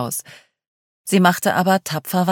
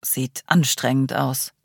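ironic; slower than usual. Acted. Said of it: "meinte Paul ironisch".

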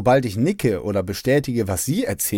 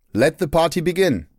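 high, jubilant party call; gleeful cheer; 6 semitones higher than usual. Retold or imitated. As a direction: crow it out in delight. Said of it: "frohlockt an unserem Tisch".

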